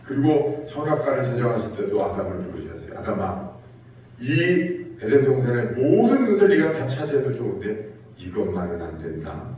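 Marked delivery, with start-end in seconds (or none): 3.0-9.5 low, grave commanding voice of God; God's grave, low command; solemn command. Retold or imitated. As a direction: lay down the one rule, deep and firm. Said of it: "명령하실 때".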